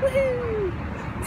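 high whooping woohoo; party cheer. Real, not acted. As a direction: let out a happy whoop. Cheering at the wedding.

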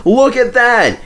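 high, loud alarmed call; exclaiming. Acted. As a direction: call out sharply. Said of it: "exclaimed his driver".

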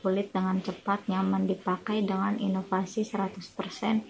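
slightly muffled by fingers; speaking with fingers on lips. Real, not acted. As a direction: hand partly covering mouth. Seen 0: Fingers press against lips while speaking; sheet mask also worn.

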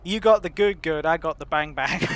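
loud tough Hispanic street voice; Hispanic drug dealer voice. Acted. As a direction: punch it like a rough dealer. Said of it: "Hispanic drug voice".

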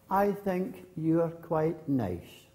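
slow, gentle answer; disarming kind reply. Acted. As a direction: answer the insult slowly and kindly.

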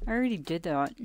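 words through a yawn. Real, not acted. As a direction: talk mid-yawn, mouth stretched. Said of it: "Excuse me for yawning".

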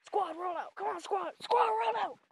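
high rallying call to the squad. Real, not acted. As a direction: holler to round up the animals. Calling the animals to follow.

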